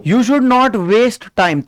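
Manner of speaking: very slow, word by word; slow dictation. Shown as a demonstration. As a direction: read it out slowly so students can write. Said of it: "teacher dictates". (धीरे-धीरे लिखवाते हुए)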